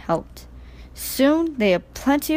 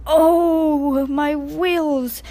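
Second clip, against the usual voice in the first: shivering; 6 semitones higher, much slower than usual. A narrator's reading. Percy wading into flood water, shivering cry. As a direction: cry out cold and miserable. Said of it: "shivered Percy".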